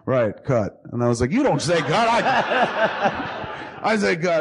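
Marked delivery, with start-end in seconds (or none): 1.3-4.4 high-pitched mock indignation; raised voice, retold telling-off; retold scolding. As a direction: scold him in disbelief, played for laughs. Retold scolding of sleeping actor.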